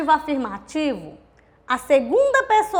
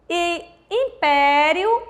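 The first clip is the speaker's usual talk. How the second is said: "império" slow, with PÉ held long; im-PÉÉÉ-rio, leaning on the middle of "império"; stress on penultimate syllable; 2 semitones higher, much slower than usual. Shown as a demonstration. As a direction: draw out the PÉ in "império". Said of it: "a tônica é a penúltima sílaba".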